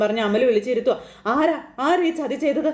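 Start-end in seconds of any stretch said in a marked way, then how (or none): 1.3-2.7 mild mock lament, pitched up; retold wailing mother. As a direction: plead who did this, half-wailing. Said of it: "ഭയങ്കര കരച്ചിൽ".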